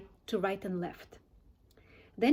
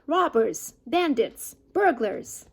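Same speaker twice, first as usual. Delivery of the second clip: shrieking rat; 5 dB louder, slower than usual. Acted. Rat shrieking after the foxes running off, loud and outraged. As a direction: yell it after the fleeing thieves. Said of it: "shrieked Rat".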